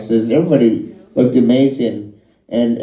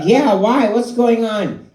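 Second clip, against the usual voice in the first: lightly raised, slow wary question; mock high reply; 9 semitones higher, slower than usual. Comic voicing himself answering Fallon, mildly higher and slow. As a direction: play along, a bit higher, drawing out the question. His own reply in the phone call.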